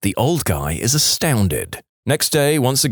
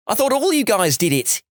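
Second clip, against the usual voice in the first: embarrassed yell; 11 semitones higher than usual. Acted. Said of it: "he yells".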